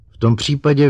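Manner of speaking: high, loud outburst; blurted out. A narrator's reading. Doctor blurts a reply to the robot, high and loud. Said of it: "vyrazila ze sebe doktorka Kelvinová".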